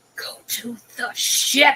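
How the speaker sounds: forceful, slow, drawn-out stage whisper. Telling another character in the game to go to the ship: whisper-yelling. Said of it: "whisper yell".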